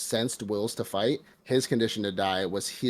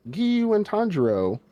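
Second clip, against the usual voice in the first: shrill high crow yelling the news, hammed up; crow announcer voice; 7 semitones higher, 5 dB louder than usual. Imitating the messenger crow announcing their defeat, high and loud. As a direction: squawk it out loud like a bird herald.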